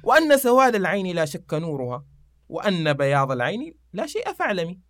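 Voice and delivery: declaimed couplet, opening loud; verse recitation. Acted.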